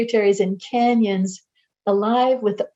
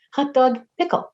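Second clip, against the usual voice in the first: hot dog pickle chirped higher with a rise; towhee call imitation; 4 semitones higher than usual. Ornithologists' towhee call, imitated higher and chirpy. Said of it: "translate the eastern towhee's call as".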